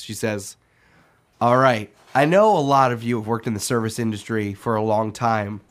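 normal talking voice

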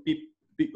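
mimicked heart monitor beep; imitated loud beep. Retelling the dive's heartbeat monitor, imitated beeping. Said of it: "like, really loud".

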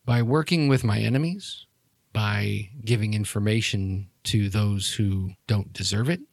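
soft, measured menace; cold villain. Acted. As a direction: speak quietly, spacing out the words with controlled threat. Game master plays cold villain.

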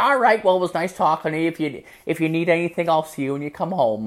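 high-pitched, quick sign-off; breezy mock mom. Mom ending call with upset son, breezy. Mom's cheery sign-off, retold.

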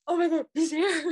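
excited. Retold or imitated.

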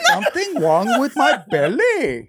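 put-on very high, slow caricatured Asian accent; drawn-out Asian accent, half laughing; hammed-up high Asian accent; mock Asian accent. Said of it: "She's horrible with accents".

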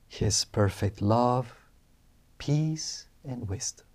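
gentle second recitation, almost hushed; slow soft affirmation. Shown as a demonstration. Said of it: "repeat aloud this affirmation".

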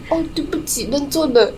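imitating a sheepish apology. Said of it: "她说".

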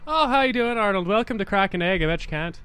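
lightly voiced Canadian host character; a hint of a Canadian character hosting a show; Wayne. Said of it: "you do your Wayne".

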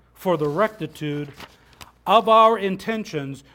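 lofty stately oratory. Acted. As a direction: proclaim it with grave dignity. Reading the Declaration's close.

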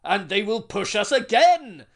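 rousing union speech. Acted.

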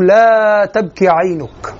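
slow, drawn-out recitation of a firm line; تأكيد وعزم. Retold or imitated. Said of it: "هذا التأكيد وهذا العزم". (تأكيد وعزم بتمهّل)

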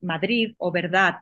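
"Madrid o verdad" with each final d hardened into a crisp, explosive T; exaggerated final T. Shown as a demonstration. Showing the interviewer Mallorcan Spanish, exaggerated final T. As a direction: bite off the last d of "Madrid" and "verdad" as a sharp T, a bit overdone. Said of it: "yo ahora lo exagero un poco".

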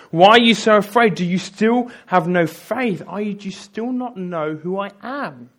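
high, loud scolding questions; stern rebuke. Acted. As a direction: rebuke them for their fear. Jesus rebukes his disciples.

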